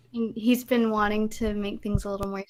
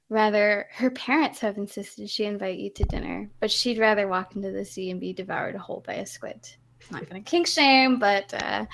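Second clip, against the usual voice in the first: reading a love letter. Shown as a demonstration. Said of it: "let me read the love letter first".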